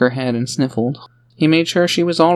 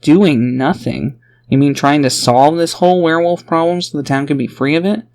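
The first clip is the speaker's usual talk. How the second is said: growled retort; 3 semitones higher than usual. Acted. A woman defends her work against the father, indignant growl. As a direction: throw his words back. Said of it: "Liel growled".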